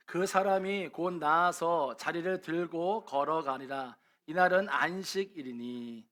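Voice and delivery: slow, measured congregational reading; drawn-out, formal Bible recitation; scripture reading. Acted. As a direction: lead everyone slowly through the verse. Leads congregation reading the verse.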